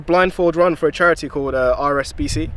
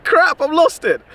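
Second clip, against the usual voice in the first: high, stretched-out dismay; sudden sinking realisation, slow; 12 semitones higher, 3 dB louder, slower than usual. Retold or imitated. Drone flying out of earshot.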